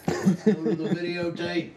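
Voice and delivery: slow, high announcer call; sportscaster voice. Retold or imitated. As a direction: boom it out like a TV sportscaster. Sportscaster catchphrase, joking.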